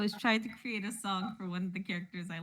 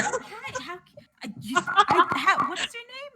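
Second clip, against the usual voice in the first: retold taken aback; 10 semitones higher, 5 dB louder than usual. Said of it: "he was taken aback by it".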